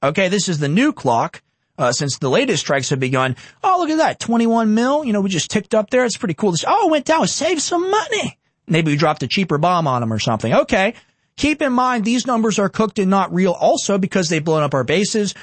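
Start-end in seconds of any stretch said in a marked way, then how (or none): 3.6-10.5 mock gleeful voice. Mocking officials watching cost clock.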